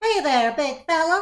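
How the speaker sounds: very high, loud goblin voice. A new arrival with a little suitcase greets someone; goblin voice. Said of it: "a familiar goblin voice".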